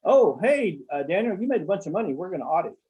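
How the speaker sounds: lightly voiced auditor, breezy and careless; mock breezy auditor. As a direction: play a careless auditor, all cheery. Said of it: "They're not supposed to just say".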